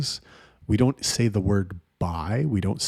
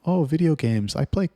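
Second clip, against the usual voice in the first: put-on ditzy girl; 7 semitones higher than usual. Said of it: "They're like".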